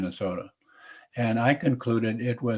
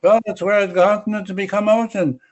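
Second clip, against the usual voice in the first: put-on light Russian accent, raised pitch; a hint of a Russian geologist; 7 semitones higher, 4 dB louder than usual. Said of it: "do a Russian accent are duly noted".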